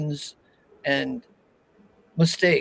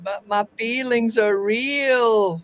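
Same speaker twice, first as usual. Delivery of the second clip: robot voice; 5 semitones higher, slower than usual. Retold or imitated. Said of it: "says the robot".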